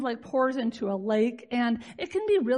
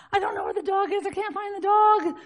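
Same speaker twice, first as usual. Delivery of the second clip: higher, breathless retelling of her daughter's panic; imitating panicked daughter; 5 semitones higher than usual. Daughter running in at night to report the lost dog, mildly panicked. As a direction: voice the daughter rushing in scared, lightly. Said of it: "she's freaking out".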